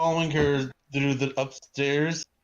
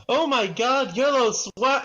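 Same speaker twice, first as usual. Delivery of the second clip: high fan-like holler; excited high shout; excited yell; 11 semitones higher, 4 dB louder, slower than usual. Acted. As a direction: cry it out high, to be heard by everyone. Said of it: "I yell".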